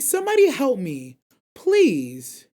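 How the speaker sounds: hammed-up cry for rescue; mock desperate plea. Retold desperate plea for help.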